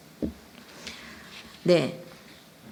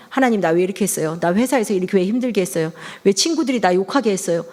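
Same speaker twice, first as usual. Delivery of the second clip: mock complaining prayer; 3 semitones lower, faster than usual. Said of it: "뭐 이렇게 하는 게 아니고".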